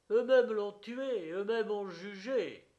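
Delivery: high, forceful accusation; powerful crowd voice. A narrator's reading. A powerful voice in the crowd accuses the authorities, high and forceful. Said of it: "murmura une voix puissante".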